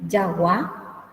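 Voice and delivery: "yagua" opening with a Spanish Y sound; Guaraní J sound. Shown as a demonstration. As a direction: start "yagua" with ya, stress at the end. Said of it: "La J suena como la Y española". ("yagua" con ye española, no tan arrastrada)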